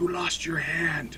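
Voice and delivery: light, soft, hushed half-whisper. Voicing a character who notices a lost hand: half-whispering in character. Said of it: "he kinda whispers".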